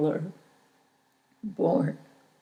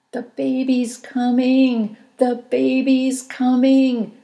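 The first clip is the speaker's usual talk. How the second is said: high, loud excited call; 6 semitones higher, 7 dB louder than usual. A narrator's reading. Mother calls out that the baby is coming, loudly. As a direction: announce it to the whole room. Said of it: "This was me calling out".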